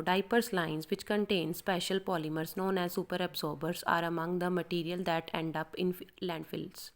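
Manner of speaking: slow, careful practice reading. Shown as a demonstration. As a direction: read it through slowly to prepare. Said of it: "इसको पहले इसको prepare करो". (धीमी तैयारी वाली पढ़ाई)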